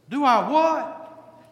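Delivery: slow, high, incredulous Golda; Golda's retort. Retold or imitated. Preacher voicing Golda taken aback by husband. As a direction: drag it out like a startled wife.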